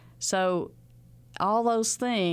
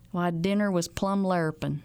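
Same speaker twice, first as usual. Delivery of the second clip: Ozark phrase. Retold or imitated. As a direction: say it like a rural Ozark native. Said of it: "When I can hear somebody say".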